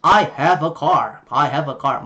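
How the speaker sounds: American "car" with the r curled; American rhotic "car"; American accent. Shown as a demonstration. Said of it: "Giọng Mỹ là".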